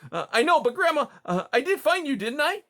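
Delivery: high, loud, eager little voice; fishing for praise; proud young mouse. Acted.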